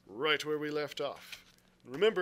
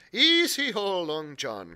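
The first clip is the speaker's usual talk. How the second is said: calling out; 3 semitones higher, 8 dB louder, slower than usual. Acted. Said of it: "cried Israel".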